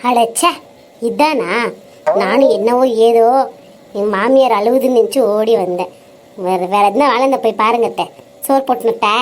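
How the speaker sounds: low, dismissive brush-off; exasperated grumble. Acted. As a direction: wave her off, fed up. Daughter-in-law grumbles at mother-in-law.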